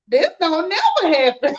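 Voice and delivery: said through a laugh. Retold or imitated. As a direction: giggle the words out. Laughs while quoting herself.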